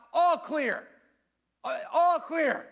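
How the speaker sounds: high, loud call to the next room; yelled all-clear. Retold or imitated. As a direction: call it out like a SWAT officer. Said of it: "I yell out".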